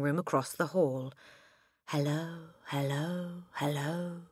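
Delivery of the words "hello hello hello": squawky parrot hello, rising at the ends. Acted. Parrot calling down to Matilda, squawky parrot voice. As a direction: call out like a talking parrot. Parrot heard across the hall.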